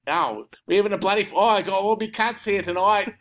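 playful put-on Aussie accent; Australian accent. American guest playing a local at the pub, Australian accent. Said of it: "I'll go to do the Australian accent".

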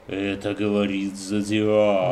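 slow, low creepy whisper into ear; creepy killer voice. Pretend. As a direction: murmur it in a stranger's ear.

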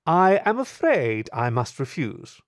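slow, polite, upper-class decline; smooth aristocratic refusal. Acted. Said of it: "Her voice was smooth, almost aristocratic".

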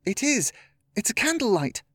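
high-pitched burst of excitement; excited. A narrator's reading. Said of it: "Her voice was filled with excitement".

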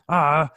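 loud cartoon cry of frustration; Fred Flintstone upset cry. Mad customer before kicking a fence, cartoonish upset yell. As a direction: imitate an exasperated cartoon yell. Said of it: "she sounded like Fred Flintstone, like, getting upset".

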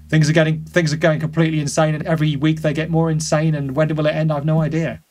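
put-on head-shaking, weary old-timer lament; old man voice. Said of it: "I'm just gonna shake my head with my old man voice".

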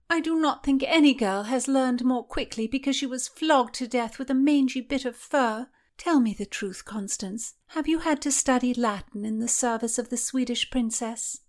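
put-on high petulant girl voice; high, complaining court lady. Mary continues complaining.

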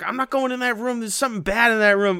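high, mock frightened refusal; mock scared. Imitating a friend scared of a dark room, high mock fear.

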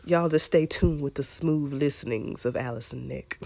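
smooth mock radio host. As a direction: purr it like a late-night DJ. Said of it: "a little radio tone".

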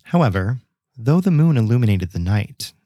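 measured storyteller's read with pauses; scripted tale, deliberately paced; story narration. A narrator's reading. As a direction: narrate an old local legend, phrase by phrase. Reads the legend aloud.

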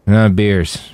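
casual. A narrator's reading. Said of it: "Roland said in a casual voice".

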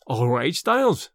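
slow, low, puzzled gentleman; a hint of a cool student; young gentleman voice. A narrator's reading. Smith replies, slow and low.

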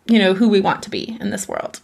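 rally yourself like a cheering parent; firm parent. Retold or imitated. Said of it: "embody a firm parent".

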